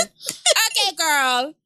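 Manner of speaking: put-on Jamaican accent. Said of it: "I can't do a Jamaican accent".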